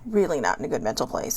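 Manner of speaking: dropped low and soft, almost to herself; soft repeat. Real, not acted. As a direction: echo it quietly under the breath.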